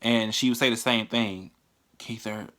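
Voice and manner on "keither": hushed, very soft imitation of mom; imitated whisper. Mom on the phone at work, hushed imitation. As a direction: say it low, nearly whispering. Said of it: "she had to whisper".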